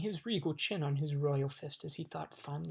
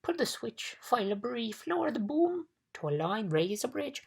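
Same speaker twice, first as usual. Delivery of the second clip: high, loud bug rattling off ideas; frantic suggestions; 7 semitones higher, 4 dB louder than usual. A narrator's reading. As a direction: escalate with each short order. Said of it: "shouted the bug".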